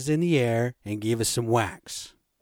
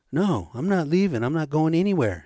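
higher, lightly voiced drunken refusal; stubborn retold protest, pitched up; drunk mom; 4 semitones higher than usual. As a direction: dig in like a tipsy mother. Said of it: "Mom's sitting there drunk saying".

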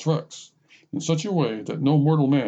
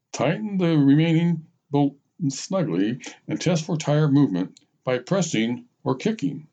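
reading instructions aloud; 2 semitones higher than usual. Acted. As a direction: read it out like a manual, word by word. Reads the manual aloud step by step.

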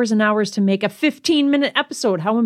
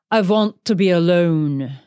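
Greta Garbo; 3 semitones lower than usual. Retold or imitated. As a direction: quote it grandly, with a "vant" for "want". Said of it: "Greta Garbo. She's the one who's known for saying that".

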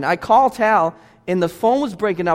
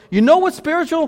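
pitched up high, calling out the question; rising question; 8 semitones higher than usual. Real, not acted. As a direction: throw it out to the room, high. Preacher's repeated rising question.

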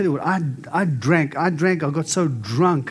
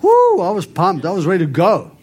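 pumped; 4 semitones higher, 7 dB louder than usual. Retold or imitated. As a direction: shout it like you're fired up. Retelling being pumped after conference.

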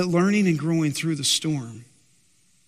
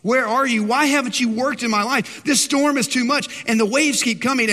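higher, pleading cry to God; weary prayer; 6 semitones higher than usual. Retold or imitated. Believer worn down by the storm crying to God, pleading. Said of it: "and you're going".

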